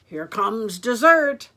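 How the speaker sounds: loud, slow greedy anticipation; drawn-out gloating; gleeful wolf. Acted. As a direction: relish it like a hungry storybook villain. Wolf hears the next victim.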